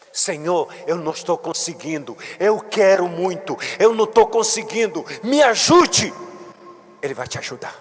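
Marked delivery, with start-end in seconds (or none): 0.1-6.1 building prayer. Shown as a demonstration. Bishop models the prayer for the congregation, building to a plea. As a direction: pray it, pushing harder each line.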